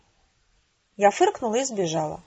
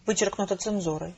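softer, even monotone aside; censor's insert; 2 semitones lower, 5 dB quieter than usual. Acted. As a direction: drop into an impersonal redaction notice. Censor's cut inserted in letter. (монотонная пометка цензора)

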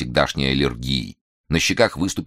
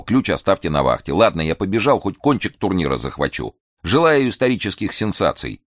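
ironic; 3 semitones higher than usual. Acted. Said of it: "ироническим пожеланием".

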